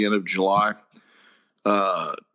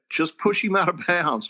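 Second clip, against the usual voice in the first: mock coach's yell from the sideline; retold yell; 7 semitones higher than usual. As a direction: shout it higher, like calling across the field. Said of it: "I'm screaming at him".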